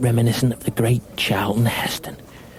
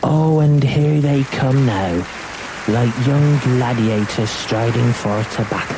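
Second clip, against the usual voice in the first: building excitement; 2 semitones higher, 4 dB louder than usual. Acted. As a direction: paint the players as heroes. Commentator waxing lyrical.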